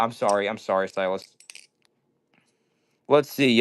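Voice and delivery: ordinary delivery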